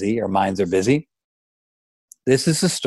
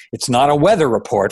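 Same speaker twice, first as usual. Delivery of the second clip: exasperated father; 4 semitones higher, 5 dB louder than usual. Acted. Father losing patience on phone.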